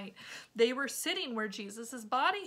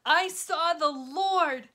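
awed; 5 semitones higher, 9 dB louder, slower than usual. Acted. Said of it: "went and said to the followers".

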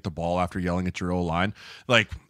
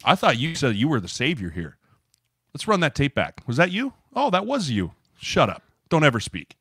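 mocking call-out; 5 semitones higher than usual. Teammates calling out self-styled savior, mocking. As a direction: pitch climbing into mock disbelief.

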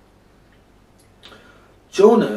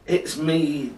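understated, resigned groan; groaned confession; 2 semitones higher than usual. Acted. Jonah confesses to the sailors, groaning mildly. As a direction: own up with a mild groan. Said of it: "Jonah groaned".

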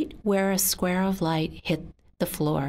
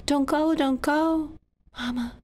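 higher, pleading don't go; a child begging her mother's spirit to stay; 7 semitones higher than usual. Acted. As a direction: beg it to stay.

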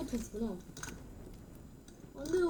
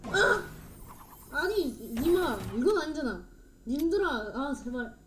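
desperate pleading; 4 dB louder than usual. Real, not acted. Pleading with opponents while losing.

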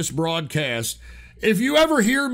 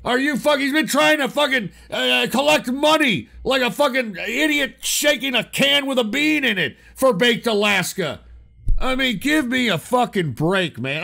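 loud, raised angry tirade; furious rant; 5 semitones higher, 3 dB louder than usual. Real, not acted. Radio host ranting at a caller, yelling furiously. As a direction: tear into him at full volume.

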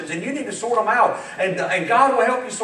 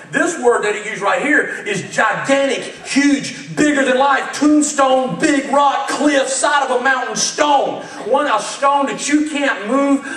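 building fervor. Real, not acted. Building description of the rock.

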